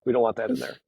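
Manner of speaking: playful high pitch; high mock voice. Shown as a demonstration. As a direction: pop the line up high, half-joking. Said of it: "I realized I went like this".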